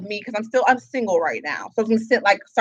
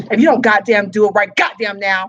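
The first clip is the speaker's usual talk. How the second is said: retold demand; 4 dB louder than usual. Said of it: "I said".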